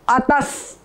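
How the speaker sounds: अतस drawn out very slowly; slow demo. Shown as a demonstration. Teacher slowly demonstrates joining half स. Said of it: "पहले कोई शब्द आ रहा है".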